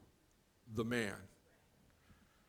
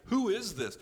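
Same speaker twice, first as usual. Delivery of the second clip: much higher, louder quoted question; retold astonished question; 9 semitones higher, 6 dB louder than usual. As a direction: imitate bewildered disciples, pitch jumping up. Disciples' amazed question, retold.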